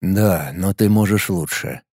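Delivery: slow, low robotic monotone; mechanical voice. A narrator's reading. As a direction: speak like a machine without feeling. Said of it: "произнёс я механическим голосом".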